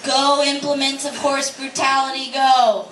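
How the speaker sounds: hammed-up rallying call; mock team cheer. Performs a mock sports cheer.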